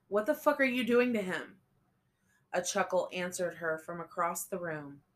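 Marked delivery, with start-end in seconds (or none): 0.1-1.6 shouted in horror; angry shout. A narrator's reading. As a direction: demand it, furious and loud. She confronts the captor.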